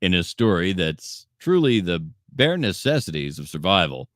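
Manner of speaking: playful newscaster intro; news anchor read. Acted.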